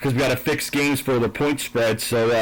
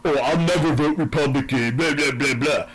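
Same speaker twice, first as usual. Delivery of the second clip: mock a smug Democrat voter; 3 semitones higher than usual. Mimicking a voter who will never vote Republican, mocking. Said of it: "It's like".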